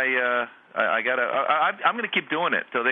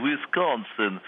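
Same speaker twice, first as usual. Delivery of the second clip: comic stab at a Russian accent; badly faked Russian accent; much slower than usual. Shown as a demonstration. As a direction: say Wisconsin in a put-on Russian accent.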